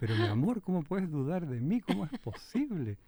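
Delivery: mock wounded innocence, pitch climbing to the end; feigned indignation. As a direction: play the falsely accused sweetheart. Acts wounded innocence to the girl. (inocencia ofendida y fingida)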